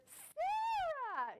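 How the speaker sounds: high, drawn-out Alabama squeal of recognition; Alabama accent. Retold or imitated. Southern fan spots her on the plane, Alabama accent. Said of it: "in this Alabama accent".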